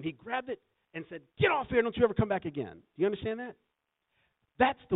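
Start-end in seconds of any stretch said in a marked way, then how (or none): 0.0-1.2 loud, high indignant outburst; indignant shout. Retold or imitated. Preacher retelling friend chasing off thief, indignant shout. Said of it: "He became indignant". 1.4-2.7 much higher and louder, ordering him out; chasing him off. Retold or imitated. Friend ordering the thief off his porch, shouting.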